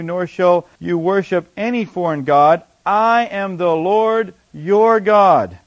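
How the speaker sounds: measured, solemn reading of a psalm; solemn scripture reading. Acted. Reads Psalm 81 aloud.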